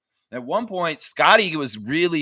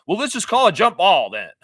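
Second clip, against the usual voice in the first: mock lazy referee; 7 semitones higher, 6 dB louder than usual. Mimicking lazy ref's decision.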